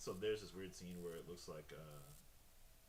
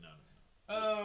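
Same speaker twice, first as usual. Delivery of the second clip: high, slow, loud mock voice; mock high refusal; 16 dB louder, much slower than usual. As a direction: stretch out a shrill no no no.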